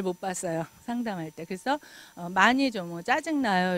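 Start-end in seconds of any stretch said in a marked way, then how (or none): 3.0-3.8 very gently. Retold or imitated. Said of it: "이러면서 굉장히 부드럽게".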